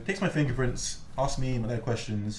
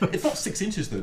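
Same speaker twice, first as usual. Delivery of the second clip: laughing; 8 semitones higher than usual. Real, not acted. Laughing at the blade size claim.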